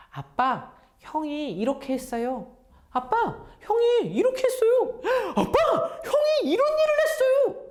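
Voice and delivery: exaggerated child's tattling voice; tattling little brother. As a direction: tell on your brothers to Dad, climbing into a squeal. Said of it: "하고 다 말해주는 거예요".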